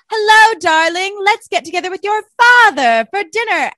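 mock sultry stepmom. Cohost imitating Catherine calling Marcus, hammed-up. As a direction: ham up a seductive purr. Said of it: "And then she's like".

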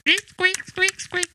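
very high squeaky mouse; squeaky rubber duck. Acted. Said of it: "Is that a mouse noise?".

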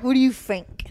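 working-class British voice; cockney, drop the th; cockney accent. Retold or imitated. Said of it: "the poor kind".

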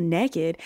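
slow "naked" said as "nekkid"; short "neck" vowel in "naked"; Southern pronunciation. Retold or imitated. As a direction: echo "naked" as a drawn-out NEK-id. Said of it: "a lot of people say naked instead of naked".

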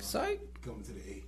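hushed aside into his ear; whisper in left ear. Real, not acted. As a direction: lean in and whisper it. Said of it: "Why you whispering in my ear".

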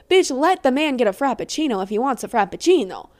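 put-on playful Italian accent. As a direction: say it like a jokey Italian. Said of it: "Why did I say that in an Italian accent?".

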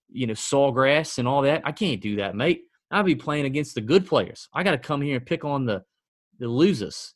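a touch of Australian twang, tongue in cheek; mock Australian accent. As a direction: lightly imitate an Aussie golfer bragging. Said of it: "He's Australian".

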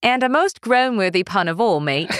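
half-strength mock British accent; toned-down British accent. Host told to tone it down, tries a half-strength British accent. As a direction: attempt a lighter British accent, not quite managing it. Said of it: "half of that".

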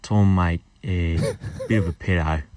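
Scot putting on an Australian accent; attempted Australian accent. Shown as a demonstration. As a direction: try an Aussie accent over a Scottish one. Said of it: "him doing an American, Australian accent".

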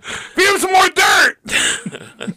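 gruff dismissive shout. Acted. Playing gruff husband.

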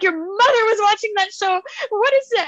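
shocked dad. Retold or imitated. Dad tells daughter about mom's show, shocked. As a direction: imitate a scandalised dad demanding answers. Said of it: "like, so shooken".

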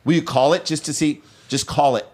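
rising, urgent pleading; frantic pleading. Acted. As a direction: beg them to call your phone. Acted frantic phone search.

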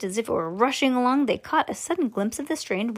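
plain reading voice

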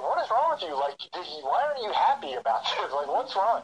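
lightly voiced wife, puzzled and prodding; wife's worried voice. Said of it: "And she's like".

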